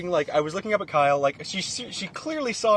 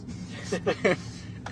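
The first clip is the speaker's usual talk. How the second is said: cartoon laugh; 6 dB quieter than usual. Shown as a demonstration. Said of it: "I can do the laugh really well".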